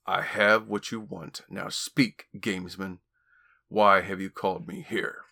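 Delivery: words pushed through gritted teeth. Acted. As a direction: speak with teeth clenched. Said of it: "then spoke through gritted teeth".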